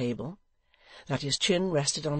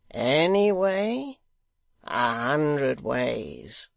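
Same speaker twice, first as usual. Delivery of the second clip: sly blind man; 5 dB louder, much slower than usual. Acted. Blind man tempts Barnaby.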